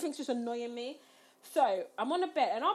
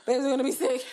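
mock woozy mumble, slightly raised; mumbling weed voice; 3 semitones higher, 5 dB louder, much faster than usual. Sick girlfriend warning boyfriend she'll vomit, mock mumbling voice. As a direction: imitate a stoned, slurred warning. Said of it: "that mumbling voice".

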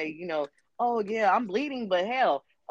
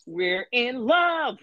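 dreamy lovesick; 3 semitones higher, 5 dB louder, much slower than usual. Pretend. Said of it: "jungle fever".

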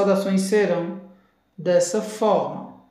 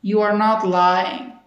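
slow demo; slower than usual. Shown as a demonstration. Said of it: "Você não está mentindo".

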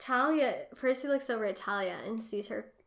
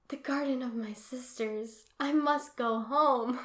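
dramatic; 3 semitones higher, 3 dB louder than usual. Retold or imitated. Retelling Zoe gazing toward her sisters' garden, dramatic. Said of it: "that is, like, a really dramatic".

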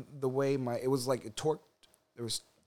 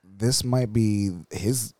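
lower, gruff baseball legend voice; Mark McGwire; 5 semitones lower, 7 dB louder, much slower than usual. Pretend. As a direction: play a lower-voiced slugger guest. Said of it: "Baseball legend Mark McGwire".

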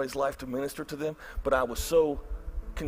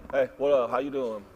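flat greeting; 4 semitones lower than usual. Retold or imitated. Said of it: "It was more like".

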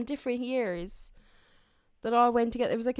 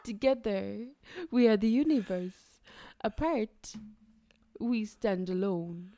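Winnie the Pooh. Retold or imitated. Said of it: "What accent was that? Winnie the Pooh?".

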